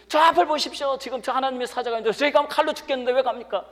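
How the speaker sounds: very high, loud donkey voice, hurrying on; talking donkey. Retold or imitated. Donkey warns its master of the angel, high urgent voice. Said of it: "나귀가 주인에게 막 말을 합니다".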